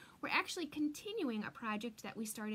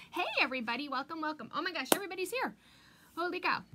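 bright, louder burst of welcome; rushed delighted hellos, higher and louder; excited greeting; 4 semitones higher, 5 dB louder, faster than usual. Real, not acted. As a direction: gush over everyone showing up. Greeting viewers joining live stream.

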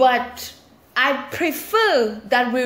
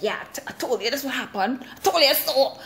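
smug told-you-so; 3 semitones higher, faster than usual. Retold or imitated. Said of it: "with this all-knowing authority".

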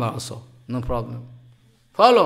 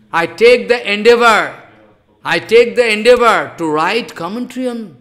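louder, insistent vow; fervent, louder vow; earnest declaration; 6 dB louder than usual. Real, not acted. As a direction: press the promise home. Earnest vow before the Gopikas.

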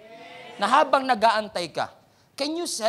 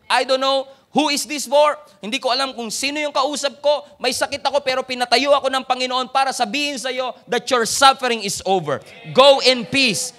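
loud, fervent preacher's cry; full-force preaching; 5 semitones higher, 9 dB louder than usual. Acted. Pastor telling the congregation their suffering is over, loud and fervent. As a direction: drive it home to the whole hall.

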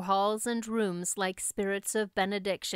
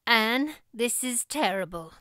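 forced calm. Acted. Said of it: "trying to speak calmly".

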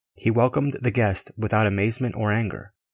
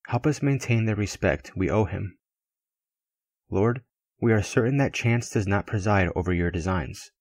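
loving prayer. A narrator's reading. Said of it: "Raoul prayed lovingly".

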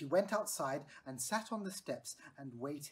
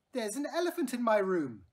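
calling out; 6 semitones higher, 8 dB louder than usual. A narrator's reading. Lindy calling to her mother.

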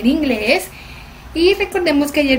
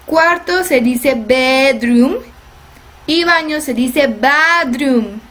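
slow, careful teacher recap; slow model sentences; much slower than usual. Shown as a demonstration. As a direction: spell it out slowly for children. (repaso lento y claro de maestra)

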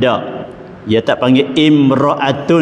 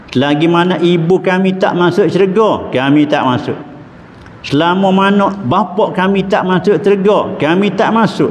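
put-on children's plea; 5 semitones higher than usual. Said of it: "dia kata".

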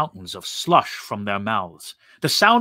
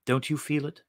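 whispered; 7 dB quieter than usual. A narrator's reading. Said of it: "he whispered".

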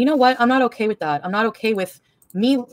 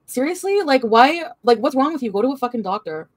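exasperated nagging; 4 semitones higher than usual. Retold or imitated. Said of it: "'cause I'd be like".

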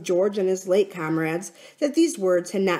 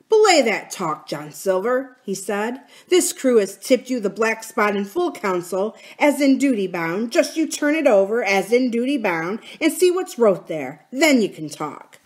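lightly voiced mutinous sailor; a touch of stern challenge; challenging pirate; 4 semitones higher, 4 dB louder than usual. Long man challenges John Silver before the crew, challenging.

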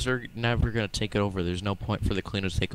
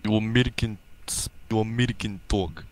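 mock Russian accent, hammed up; gruff fake Russian villain voice. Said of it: "you're using your Russian accent".

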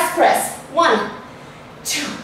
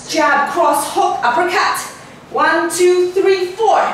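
boxing coach calling combos; 3 semitones higher than usual. Acted.

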